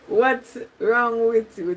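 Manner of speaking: slow question through laughter; laughing. Real, not acted. Laughing at a viewer who asks what's wrong. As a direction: laugh it out slowly.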